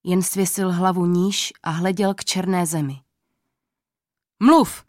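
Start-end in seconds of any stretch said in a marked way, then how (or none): 4.4-4.8 loud high shout of a command; king shouts. A narrator's reading. King loses patience with the silent old man, loud shout. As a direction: yell at him to speak. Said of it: "křičel na něj král".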